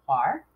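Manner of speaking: CAR said alone as the first syllable; single syllable. Shown as a demonstration. Teacher breaks down carnivores, one syllable alone. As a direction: say "Car" as one separate piece. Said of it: "break it down by the syllables".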